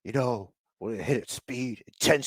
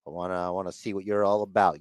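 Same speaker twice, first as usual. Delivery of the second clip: a hint of a low-key, sizing-him-up wrestler; imitated wrestler; 7 semitones lower than usual. Podcaster voices wrestler eyeing the kid, lightly imitated low voice. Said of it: "there's Gulak, he's like".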